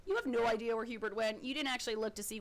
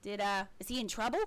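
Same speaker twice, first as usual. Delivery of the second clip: gushing halfling; 3 semitones higher, 3 dB louder than usual. Acted. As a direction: gush about him, pitched way up. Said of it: "and she's like".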